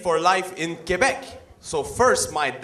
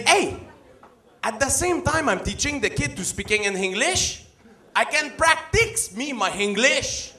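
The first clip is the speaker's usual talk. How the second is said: dad voice; 7 semitones higher than usual. Retold or imitated. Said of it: "He say".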